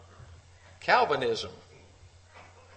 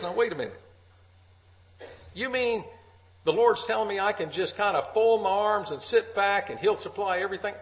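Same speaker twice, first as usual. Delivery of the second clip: higher, louder incredulous challenge; skeptical objector; 6 semitones higher, 3 dB louder than usual. Acted. Preacher voicing a doubter in the pews, incredulous and raised. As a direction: play the doubter, pitched up in disbelief. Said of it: "somebody says".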